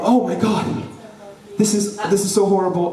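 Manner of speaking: acted appalled exclamation; dismayed mom. Mom discovering the baby's mess before dinner, acted dismay. Mom reacts to diaper disaster.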